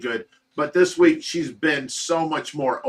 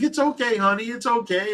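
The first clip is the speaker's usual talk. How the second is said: calm her down as she hugs you; soothing; 8 semitones higher than usual. Retold or imitated. Husband soothing his frightened wife in a hug, much higher and gentle.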